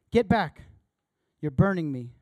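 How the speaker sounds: the ghost yelps at the burning spirit; ghost crying out. Acted. Ghost flinches from the burning angel, pained cry.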